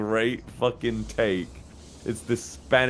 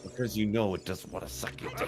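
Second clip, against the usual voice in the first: mock taunting cry; 6 dB quieter than usual.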